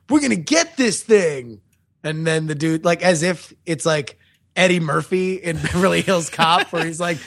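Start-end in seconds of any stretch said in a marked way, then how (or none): 0.1-1.6 lightly hammed-up, slowed-down movie line; mock movie-character quote. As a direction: draw it out like an eager action sidekick. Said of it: "And then he's like".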